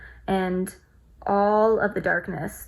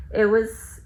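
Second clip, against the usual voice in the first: emotional; 2 semitones higher, slower than usual. Real, not acted. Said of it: "I'm just getting emotional thinking about it".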